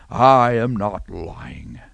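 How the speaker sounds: slow, mock-earnest politician denial; caught politician. Preacher mocks a caught politician addressing the camera, slow and earnest. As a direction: play a caught politician swearing innocence, slowly. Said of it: "He sounds like a politician".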